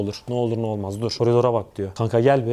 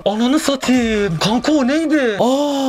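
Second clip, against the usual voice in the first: frightened; 6 semitones higher than usual. Real, not acted. Seeing something in the stairwell.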